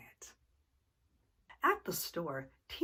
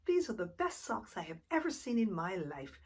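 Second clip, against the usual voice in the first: high, delighted mock yell; a child showing off her treasure; excited yell; 6 semitones higher than usual. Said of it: "Tina ran home and yelled".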